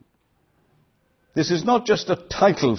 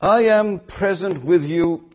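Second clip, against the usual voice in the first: tender; 5 semitones higher, slower than usual. Acted. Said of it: "the Lord is saying".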